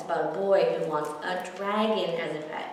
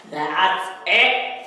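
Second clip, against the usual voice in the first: louder, fed-up snap; snarled; 5 dB louder than usual. A narrator's reading. Theodore loses patience with the boy, mild snarl. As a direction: snap it when patience runs out. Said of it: "Theodore snarled".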